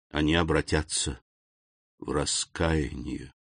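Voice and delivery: measured, earnest invocation with pauses; solemn prayer. A narrator's reading. Count praying to his dead second father, solemn and earnest.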